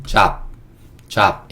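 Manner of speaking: 잡 as one syllable with an "ah" vowel; demonstrated pronunciation. Shown as a demonstration. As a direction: model 잡 twice as an isolated word. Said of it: "이렇게 읽을 수 있고". (잡을 한 음절로 끊어 시범 발음)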